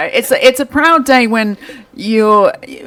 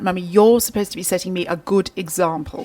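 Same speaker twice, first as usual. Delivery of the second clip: put-on posh BBC accent; 5 dB quieter than usual. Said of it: "in her best B B C accent clipped tones".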